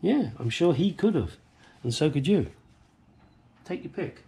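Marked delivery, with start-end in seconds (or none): 3.6-4.2 light whisper. Real, not acted. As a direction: toss it off in a whisper. Whispered aside.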